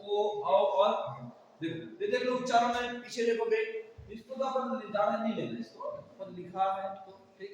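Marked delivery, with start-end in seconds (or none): 0.1-1.3 slow vowel demo. Shown as a demonstration. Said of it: "पश्च स्वर में क्या लिखा".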